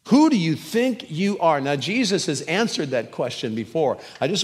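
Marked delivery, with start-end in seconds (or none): 0.1-1.6 higher, louder, accusing demand; angry challenge. Acted. Accusers in the temple confronting Jesus, angry demand. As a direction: throw the question in his face.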